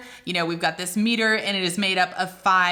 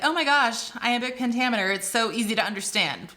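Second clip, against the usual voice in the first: higher, mock-casual gush; imitating breezy know-it-alls; 3 semitones higher, faster than usual. Teacher imitating people who find meter easy, mock breezy. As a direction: toss it off like it's obvious. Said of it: "I've heard a lot of people say".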